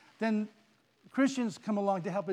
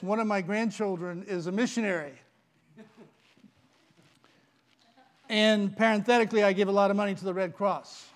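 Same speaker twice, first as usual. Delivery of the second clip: loud bragging; 5 dB louder than usual. Acted. Man boasting to Peter.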